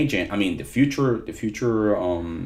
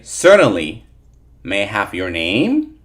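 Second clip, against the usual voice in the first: customer service voice; 7 dB louder than usual. Shown as a demonstration. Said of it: "so we practice and we say".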